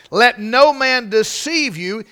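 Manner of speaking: forceful, drawn-out emphasis on "deceive"; stress on deceive. Shown as a demonstration. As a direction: hammer the warning home on "deceive". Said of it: "I wanna put some emphasis on that word".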